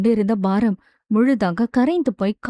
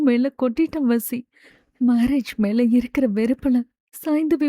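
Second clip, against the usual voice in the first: teary apology. Acted. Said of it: "கண்களில் நீருடன்".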